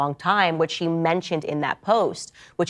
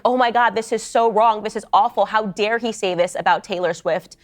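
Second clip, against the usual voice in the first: slightly raised, imitating horrified fans; mock outraged fans; 4 semitones higher than usual. Podcaster imitates Swifties reacting to the lyrics, mock outrage. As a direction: ham up the fans' shocked outrage. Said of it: "They were like".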